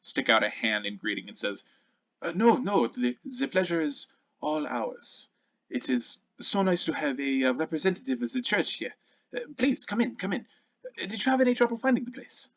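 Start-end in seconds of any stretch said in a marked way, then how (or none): 2.2-12.5 put-on Aldrich in a loose, unsure German accent; lightly German-accented host, higher at times; attempted German accent. Welcoming a church representative in, attempted German accent. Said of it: "I can't do a German accent".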